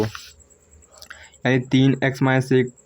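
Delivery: slow whispered repeat of the equation; teacher whispering the equation to himself, slow and soft. Shown as a demonstration. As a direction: breathe the words out slowly under your breath. Teacher repeats equation under breath.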